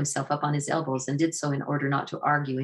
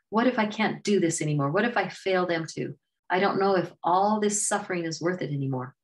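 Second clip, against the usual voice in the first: higher, a touch of anguish, mild and understated; Raja pouring out hurt; 3 semitones higher than usual. Acted. Raja admits his grief to Waiwau, mildly anguished. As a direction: let the hurt spill out, a hint of tears.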